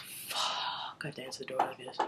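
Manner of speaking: panicked whisper. Retold or imitated. Roommate knocking while he's crying, hushed panicked whisper. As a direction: breathe it out in alarm, voiceless. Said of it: "And I was just like".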